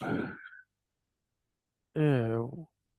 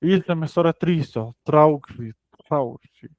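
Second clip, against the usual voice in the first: measured book-reading delivery; reading aloud; 4 semitones higher than usual. Acted. Reading a psychoanalysis text to a study partner, read aloud. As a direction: read out a scholarly text, evenly phrased.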